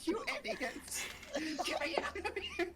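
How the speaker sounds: tag. Acted. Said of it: "writhing in your laps as she screams".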